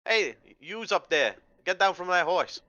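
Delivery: high-voiced hag, not quite aggressive; night hag with Boston accent. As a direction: call up at intruders as a Boston hag. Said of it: "it's a, it's a night hag".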